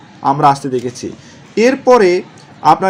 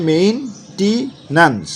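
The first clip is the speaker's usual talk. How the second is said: slowed memory cue; 3 semitones higher, much slower than usual. Shown as a demonstration. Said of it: "এরকম করে মনে রাখবেন".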